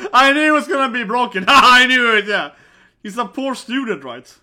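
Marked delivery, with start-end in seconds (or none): 0.1-1.4 gleeful told-you-so. Real, not acted. Laughing at broken car.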